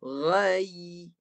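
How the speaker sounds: "Ghai" drawn out onto a clear closed y. Shown as a demonstration. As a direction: lift mid-tongue to finish "Ghai" on a held y. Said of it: "baru dia naik".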